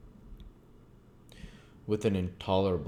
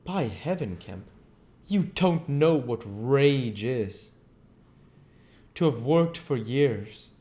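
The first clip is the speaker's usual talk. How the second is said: grind out every word in rage; louder, furious threat of going wild; raging Invisible Man; 7 semitones higher, 4 dB louder than usual. Acted. You don't know what rage is.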